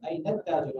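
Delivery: अय्न ताजिर with the final N linked into the T; अय्न ताजिर read as one joined phrase; joined nun. Shown as a demonstration. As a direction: run अय्न ताजिर together through the nun. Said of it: "आप नून के साथ मिलाइएगा".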